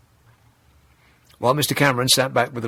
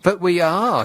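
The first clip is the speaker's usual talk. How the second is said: put-upon; 4 semitones higher, slower than usual. Retold or imitated. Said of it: "a man who was put upon".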